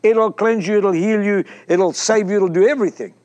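mock-fervent "oh, the blood", hammed up a little; fervent belief. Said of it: "We can believe like this".

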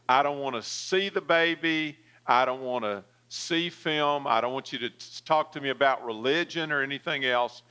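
defensive, pushing her away; a touch of hostile defiance. Retold or imitated. Young woman to nurse, mildly hostile and defensive. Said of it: "Very hostile, very defensive".

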